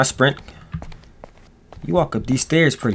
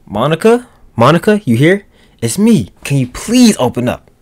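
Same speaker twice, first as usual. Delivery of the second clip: calling out; 5 semitones higher than usual. Acted. Calling through apartment door.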